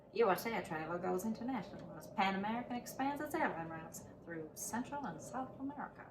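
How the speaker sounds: put-on old-timey announcer read. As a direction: read it like a vintage newsreel announcer. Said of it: "I get to use my old-timey voice".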